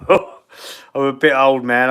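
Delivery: laughing. Real, not acted. Repeats his age joke, laughing.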